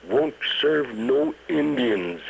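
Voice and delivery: grumbled. Retold or imitated. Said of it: "he muttered".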